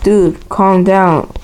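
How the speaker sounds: slow, unbothered brush-off; retold nonchalant shrug in the voice; like it's nothing. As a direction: say it casually, dragging the words. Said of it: "I said it like it was nothing".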